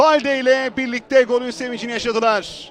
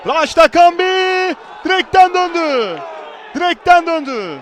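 raised, louder call of the miss; excited commentary; 5 semitones higher, 3 dB louder than usual. Real, not acted. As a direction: rise up as it hits the post. Shot hits the post.

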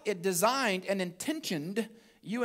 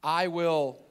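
louder, leading the congregation; said together; 6 dB louder than usual. Shown as a demonstration. Pastor leading the congregation in unison, louder. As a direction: call it out with them. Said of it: "say it with me".

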